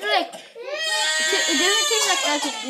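laughing squeal. Real, not acted. Eating lawn clippings.

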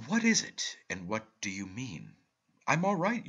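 loud, high, insistent questions; pressing uncle. A narrator's reading. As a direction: push him for an answer. Uncle presses nephew earnestly.

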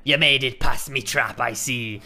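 slow, drawn-out pirate reading; piratey voice. Acted. Pirate captain taunting intruders past his trap, piratey voice. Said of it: "in a piratey voice".

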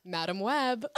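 loud, excited exclamation; excited shout. Real, not acted. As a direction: blurt it out excitedly.

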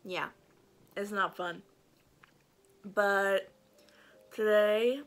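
talking through a swollen mouth; words a bit thick from a swollen mouth. Real, not acted. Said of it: "sorry by the way if my mouth sounds weird".

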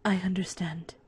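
Goat Mom farewell. Acted.

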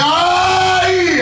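a sharp high yelp of pain; hammed-up cry of pain. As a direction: cry out ay as if hit.

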